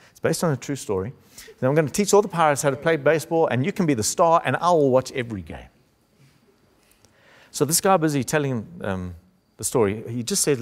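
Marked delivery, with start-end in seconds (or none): 1.6-5.7 fast and higher, excited promise; eager promise. Retold or imitated. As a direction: rattle it off eagerly, a grown man won over. Hook's excited promise to Jack.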